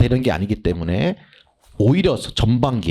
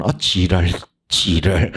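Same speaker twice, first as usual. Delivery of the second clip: cursing while reading; 6 semitones lower, slower than usual. Shown as a demonstration. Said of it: "이렇게 읽으라고 그래".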